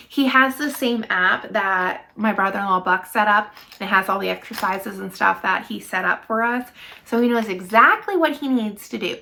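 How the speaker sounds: slight lisp, retainers in. Real, not acted. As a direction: talk with retainers in your mouth. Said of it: "I probably have a little bit of a lisp".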